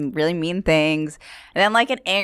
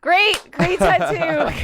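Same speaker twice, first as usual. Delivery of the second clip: high, drawn-out fake praise; feigned enthusiasm; 12 semitones higher, much slower than usual. Comic praising a heckler's tattoo, feigned enthusiasm. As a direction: stretch out the compliment, pitched way up.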